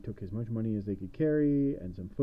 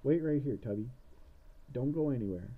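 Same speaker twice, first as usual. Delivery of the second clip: witch voice; 3 semitones higher, 3 dB quieter than usual. Acted. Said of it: "she's looking at him like".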